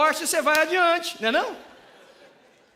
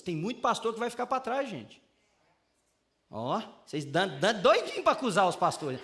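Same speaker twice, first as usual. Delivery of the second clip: ordinary delivery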